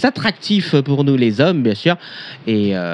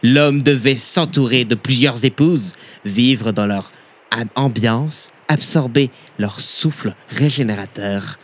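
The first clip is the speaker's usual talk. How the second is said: mock solemn reading fading; 2 semitones lower than usual. Pompous reading, sinking to hush.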